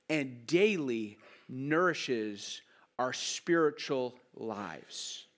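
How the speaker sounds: slow, deliberate reading with long pauses; unhurried, measured, solemn recitation; nice and slow. Real, not acted. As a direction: read it out slowly, weighing each phrase. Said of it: "I'll read it nice and slowly".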